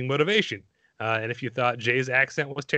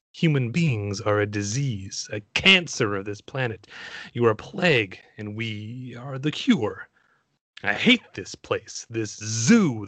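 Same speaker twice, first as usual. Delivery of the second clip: Agent Smith; 2 semitones lower than usual. Acted. Performing the movie quote for the show, theatrical villain. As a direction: perform it as a one-man show, measured and menacing. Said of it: "it has to be performed".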